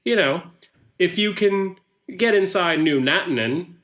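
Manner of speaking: put-on lightly accented newsman making a pitch; chatty salesman touting his network; Hein Hookman pitch. Hookman asks Luca for gossip, salesman-like.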